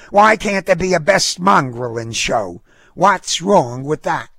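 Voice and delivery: high-pitched indignant woman; feisty dog owner, protesting. A narrator's reading. Dog owner disputes the fee at the counter, indignant. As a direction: argue back in a high, feisty voice. Voices Missus Harrigan challenging.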